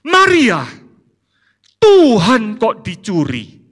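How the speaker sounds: loud, high, slow disbelief; a hammed-up stunned questioner; incredulous question. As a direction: call out to her in disbelief. Preacher imagines asking Maria.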